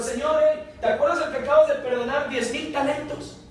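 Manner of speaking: high, eager telling the master; urgent report. Acted. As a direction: rush to tell the lord. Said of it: "Le fueron".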